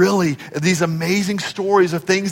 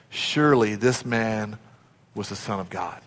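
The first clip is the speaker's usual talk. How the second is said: hushed awe; 8 semitones lower, 10 dB quieter than usual. Acted. Guard's awed confession.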